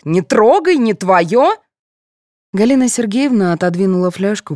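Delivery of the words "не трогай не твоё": mild mock yell, pitched up; high, sharp retold scolding. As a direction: imitate a grandmother's warning cry. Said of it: "а бабка как заорёт".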